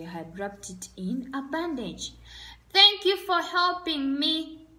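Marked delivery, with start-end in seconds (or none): 2.7-4.7 gurgling little fish. Acted. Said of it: "gurged Gabby Guppy".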